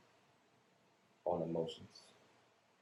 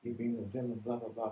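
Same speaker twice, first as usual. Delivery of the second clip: higher, mocking accuser voice; mocking whiny accuser; 5 semitones higher than usual. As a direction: whine it like a critic. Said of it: "everybody's saying".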